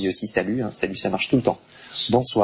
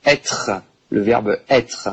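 slow, stressed être; slow emphatic model; much slower than usual. Shown as a demonstration. Teacher presenting the key verb slowly. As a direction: lay it out slowly for the class. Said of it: "c'est très important".

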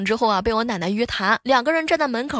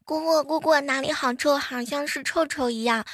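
put-on little kid voice; 4 semitones higher than usual. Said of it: "萌萌就说".

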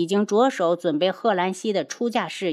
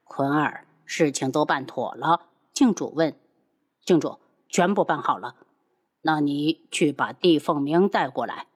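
lower, authoritative elder voice; low stern master; 5 semitones lower than usual. Acted. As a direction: give orders in a low voice. Cult master and servant dialogue.

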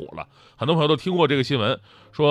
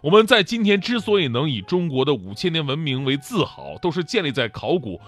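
patient explaining. Retold or imitated. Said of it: "非常耐心地跟我解释说".

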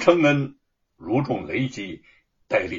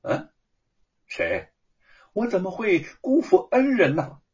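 confused, rising questions; ask, baffled, who you failed; puzzled question; 6 semitones higher than usual. Acted. Wu Cheng'en baffled by his friend's accusation, puzzled question. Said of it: "吴承恩困惑地问".

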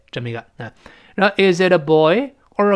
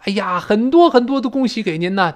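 sincere congratulations; 5 semitones higher than usual. Acted. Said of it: "表示我们诚挚之情".

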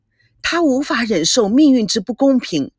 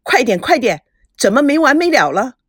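loud, higher, impatient yell; soldier yelling; 4 semitones higher, 5 dB louder than usual. A narrator's reading. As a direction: shout them out of the room. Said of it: "门口士兵大叫".

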